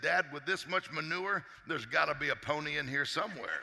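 cheerful boy, lightly acted; happy optimist. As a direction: play the delighted son, savouring the words. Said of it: "what are you so happy about".

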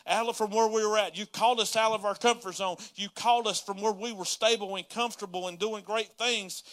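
loud, exasperated plea building up a list of grievances; yelling at God. Retold or imitated. Pastor retelling how he challenged God, yelling. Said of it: "I'm, like, yelling at God".

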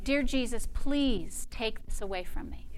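soft, meek mock prayer; hushed, helpless imitation prayer; mock pious pleading. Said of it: "another religious thinking".

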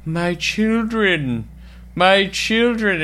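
a lightly voiced creepy preacher calling his flock; eerie cult leader call. Retelling the cult leader summoning zombies, slow mock call. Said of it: "And then you hear".

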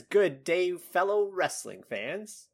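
put-on amateur British accent, slowed and lifted; attempted British accent. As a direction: try a British accent, stretching the words. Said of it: "I can't do a British accent".

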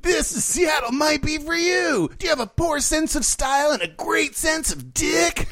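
booming high announcer hype, shouted; monster truck rally voice. Pretend. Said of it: "Why are you doing a monster truck rally voice".

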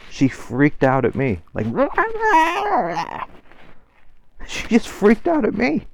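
high laughing squeal through the words; laughing retelling. Retold or imitated. Vlogger laughing while retelling her freak-out. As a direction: laugh it out in disbelief.

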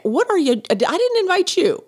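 startled protest at a stranger in the bathroom; surprised. Retold or imitated. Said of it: "I was like".

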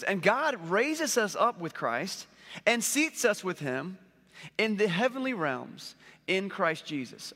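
slow, weighty Bible reading; scripture reading. Acted. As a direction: read the verse slowly and solemnly. Reads the scripture verse.

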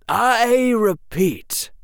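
high, slow, stern professor; cold warning to the older Slytherins; stern Quirrell. A narrator's reading. Quirrell warns the Slytherins, sternly. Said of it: "sounding very stern".

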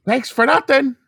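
put-on high bitter kid voice; snide ungrateful reply; sarcastic.

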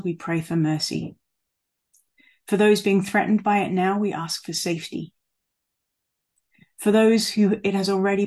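measured pastoral prayer with pauses between petitions; spoken prayer. Real, not acted. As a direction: lead the congregation in earnest prayer. Leads a congregational prayer.

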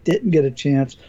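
strained, fading voice; hoarse voice. Real, not acted. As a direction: voice going hoarse. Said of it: "losing my voice".

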